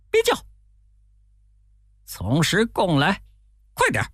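high commanding Wukong order; stern shout. Acted. Wukong ordering thieves to confess, high stern. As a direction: demand the truth now. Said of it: "悟空大喝".

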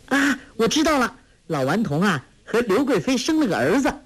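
put-on high, fast, triumphant girl; eager guess. Girl sure she has solved the riddle, high and fast.

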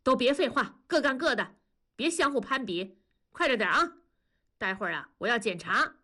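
mild glaring reprimand. Acted. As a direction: scold the kids, understated. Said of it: "文丽瞪着眼睛说".

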